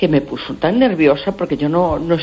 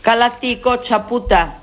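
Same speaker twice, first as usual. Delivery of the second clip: higher, harsher mock yell in Galician; imitated yelling in Galician; 5 semitones higher than usual. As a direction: fling the Galician insult like the angry neighbour did. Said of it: "pero más así".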